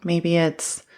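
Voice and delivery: calm, measured grounding guide with long pauses; guided meditation. Acted. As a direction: guide the listener gently, leaving space between phrases.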